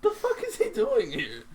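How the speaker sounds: high laughing disbelief; laughing quote. Retold or imitated. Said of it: "I was like".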